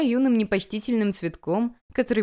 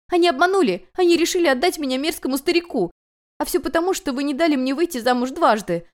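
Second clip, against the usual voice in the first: high, loud tearful rant; desperate outburst; 9 semitones higher, 5 dB louder than usual. A narrator's reading. Runaway bride screams at the people she blames. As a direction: pour out all the outrage at once. Distraught bride rants about marriage.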